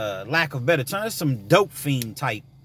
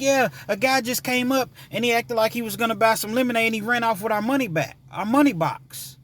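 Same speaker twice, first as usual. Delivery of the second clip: imitating young girls; 10 semitones higher than usual. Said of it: "They were like".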